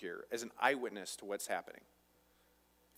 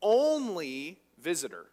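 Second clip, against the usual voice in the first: slow incredulous question; 3 semitones higher, 5 dB louder than usual. Retold or imitated. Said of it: "And so he says".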